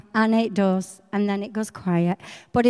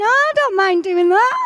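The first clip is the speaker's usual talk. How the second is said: higher, louder, voice close to tears; tearful delight; 9 semitones higher, 5 dB louder than usual. Real, not acted. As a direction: answer God almost crying with joy. Moved answer to God.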